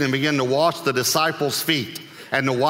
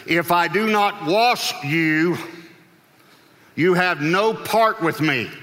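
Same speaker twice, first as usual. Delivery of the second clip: slow, higher, emphatic warning; pointed inflection; 5 semitones higher, slower than usual. Acted. Jesus answers Peter's refusal, slow pointed warning. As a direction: spell it out firmly, pausing midway. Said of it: "I'm just putting a little inflection".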